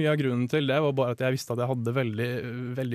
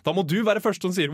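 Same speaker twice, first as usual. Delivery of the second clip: normal talking voice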